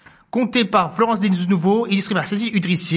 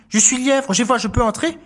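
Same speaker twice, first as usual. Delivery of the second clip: higher, asking hare; 5 semitones higher than usual. Acted. Hare asking the mouse, higher voice. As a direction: politely ask to come in.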